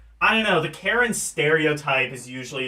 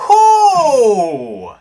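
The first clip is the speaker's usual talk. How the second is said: high, loud startled cry; scared shriek; 5 semitones higher, 8 dB louder than usual. Acted. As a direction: shriek it in panic. Frightened witness cries out.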